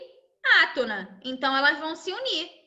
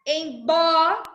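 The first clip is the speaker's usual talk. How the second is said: "bó" louder and held, then stop; stop on tonic syllable; 4 dB louder than usual. Shown as a demonstration. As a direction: land hard on "bó" and stop. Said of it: "Por que que eu parei aqui?".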